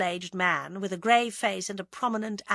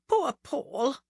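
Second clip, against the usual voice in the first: higher, grieving sigh of pity; mournful; 7 semitones higher than usual. A narrator's reading. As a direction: lament him tenderly, pitched up. Tearful woman mourns Paul.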